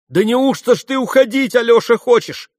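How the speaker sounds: high, loud, anguished disbelief; pained, incredulous exclamation; sorrowful amazement. A narrator's reading. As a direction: cry out in wounded astonishment. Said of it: "воскликнула она в горестном изумлении".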